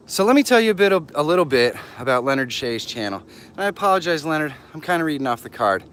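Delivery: breathless from walking; out of breath. Real, not acted. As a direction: talk while short of breath. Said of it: "I'm a little bit out of breath".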